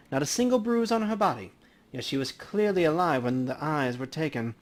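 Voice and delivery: easygoing professional banter at a crime scene; lightly voiced coroner. Dresden explains findings.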